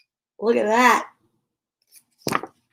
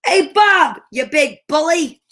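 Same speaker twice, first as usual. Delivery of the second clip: speaking up; 3 semitones higher, 3 dB louder than usual. Acted. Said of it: "Martha spoke up immediately".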